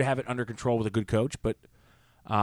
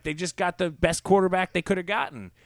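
retold heated retort; 7 semitones higher, 5 dB louder than usual. Retelling own heated argument.

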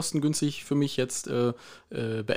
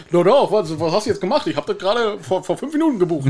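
boss protesting; 2 semitones higher, 4 dB louder than usual. Retold or imitated. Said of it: "kam der Chef um die Ecke".

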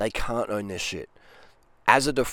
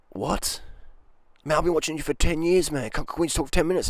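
shocked pleading fan; 6 semitones higher than usual. Retold or imitated. Fan protesting being brushed off.

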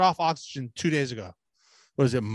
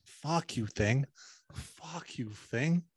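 mock defiance; 3 semitones lower, 9 dB quieter, much slower than usual. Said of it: "what I tell this thing".

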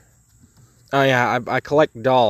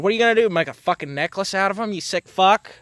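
retold exasperated jab; 7 semitones higher, faster than usual. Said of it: "I said".

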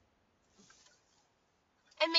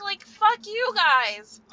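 slow, louder fuck you guys; fed-up dismissal; 3 semitones higher, 6 dB louder, much slower than usual. Real, not acted. Telling off the guys who judge her looks, slow contemptuous dismissal. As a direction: drag it out with contempt. Ranting at jealous critics.

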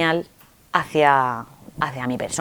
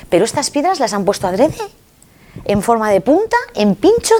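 astonished; 5 semitones higher than usual. Retold or imitated. Asombro ante piedras puntiagudas.

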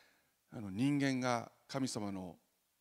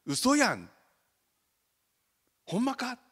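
higher, louder Kansai disbelief; surprised Osaka dialect; 11 semitones higher, 8 dB louder, slower than usual. Retold or imitated. Osaka play characters reacting in disbelief, surprised. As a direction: react in Osaka dialect as if you can't believe it. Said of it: "妻びっくりしたそうです".

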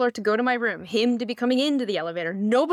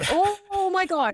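mock startled gasp; 10 semitones higher than usual. Man cornered by a fan in the elevator, imitated alarm. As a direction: imitate someone recoiling in fright.

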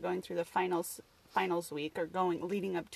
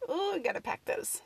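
mock kids; 10 semitones higher than usual.

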